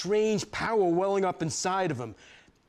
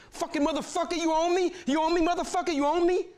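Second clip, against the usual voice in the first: high, loud enraged scream; screaming and crying; 13 semitones higher, 5 dB louder, faster than usual. Retold or imitated. Narrator raging at David mid-fight, screaming high and loud. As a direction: unleash everything in one scream. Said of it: "I'm screaming and crying".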